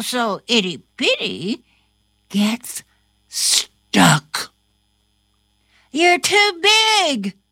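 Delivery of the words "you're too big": put-on girl voice. A narrator's reading. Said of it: "says Ava".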